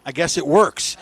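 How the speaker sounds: soft, offhand retold remark; understated quote. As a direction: toss off his line quietly. Retelling the racer's understated reaction.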